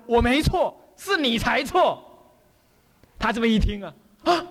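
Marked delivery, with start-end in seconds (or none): 0.1-2.0 retold angry retort. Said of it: "那书生一火大".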